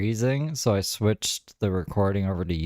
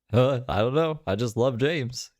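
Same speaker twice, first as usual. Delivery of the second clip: slightly higher, tentative impersonation; half-hearted imitation, pitched up a little; Josh; 4 semitones higher than usual. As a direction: lightly mimic how he normally talks. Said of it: "He talks like".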